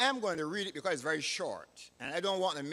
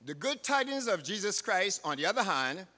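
louder, emphatic sermon delivery; preaching; 3 semitones higher, 6 dB louder than usual. Real, not acted. Preacher telling God's people of the Lord's coming, emphatic preaching. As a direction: proclaim it firmly to the congregation. Preaches to congregation after scripture.

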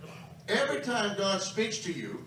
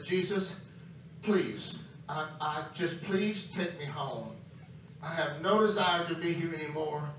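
retold crying plea. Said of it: "I'm crying like crazy".

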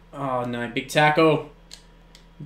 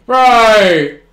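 loud, high outburst of disbelief; real gamer shock; shocked shout; 4 semitones higher, 9 dB louder, much slower than usual. Real, not acted. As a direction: yell it out stunned. Shock at a play.

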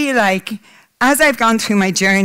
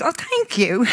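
emotional; 4 semitones higher, 5 dB quieter, slower than usual. Real, not acted. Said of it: "the most emotional speaker of the day".

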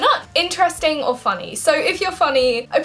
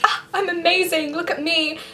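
mock vanity; 4 semitones higher than usual. Mimics self-obsessed person.

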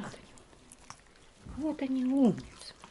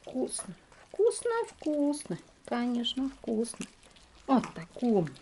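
talking to a dog; 2 semitones higher than usual. Real, not acted. Praising dogs while feeding.

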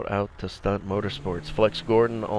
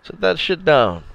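angry command; 7 semitones higher, 7 dB louder than usual. Real, not acted. Ordering NPC in game.

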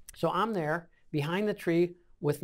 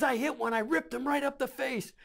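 higher-pitched retold excitement; mildly frantic, voice pitched up; imitating a comrade who is freaking out; 7 semitones higher than usual.

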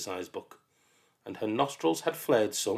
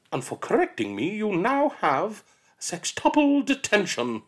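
gloating teacher; 11 semitones higher, 4 dB louder than usual. Acted. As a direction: relish the penalty.

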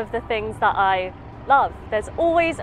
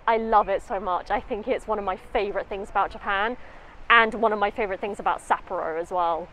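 muffled by mask over mouth; talking behind mask; through a face mask. Real, not acted. Seen 2: Speaker wears white face mask over mouth and nose throughout.

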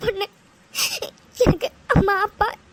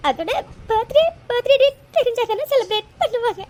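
tearful. Acted. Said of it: "அழாத".

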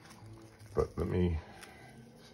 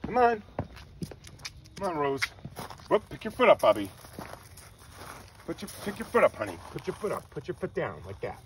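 high-pitched pet talk; 11 semitones higher than usual. Real, not acted. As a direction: coax the puppy, pitched way up. Coaxing the dog to walk.

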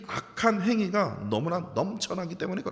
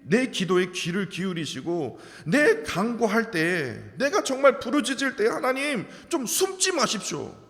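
David crying out; 3 semitones higher, slower than usual. Retold or imitated. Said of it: "기도하고 외치고 있습니다".

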